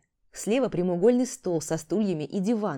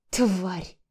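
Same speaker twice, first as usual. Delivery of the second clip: рык. Acted. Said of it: "прорычала Сорина".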